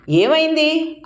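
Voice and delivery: high, anxious what happened; worried alarm. Retold or imitated. Bride's mother asks the pinched narrator in alarm, anxious. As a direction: ask in sudden alarm. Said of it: "అంటూ కంగారు పడ్డారు".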